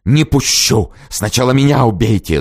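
high, loud defiant cry; hissed defiance. A narrator's reading. Woman shields the door against the lackeys, loud defiance. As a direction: block the door and defy them. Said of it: "зашипела она".

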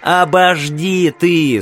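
slow, panting plea; out of breath. Acted. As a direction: gasp it out after choking. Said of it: "сказал он, переведя дух".

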